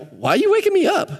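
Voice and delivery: a high, put-upon whine at being woken; groggy complaint. Retold or imitated. Jesus woken in the boat, grumbling high and put-upon. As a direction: sound like someone shaken awake mid-nap. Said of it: "He's like".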